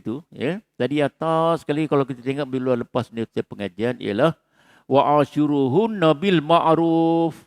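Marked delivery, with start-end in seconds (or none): 4.9-7.4 slow recitation. Shown as a demonstration. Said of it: "tu perintah Allah Ta'ala".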